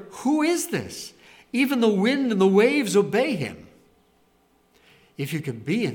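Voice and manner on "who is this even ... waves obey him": high-pitched, astonished disciples' question; stunned and frightened, pitched well up; terrified awe. Acted. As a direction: act out awestruck alarm, voice raised in pitch. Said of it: "Mark says they are terrified".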